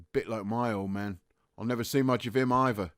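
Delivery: soft Cockney reflection, trailing very quiet; resigned confiding. Acted. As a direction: share it quietly, the fight gone. Private concedes, shares about father.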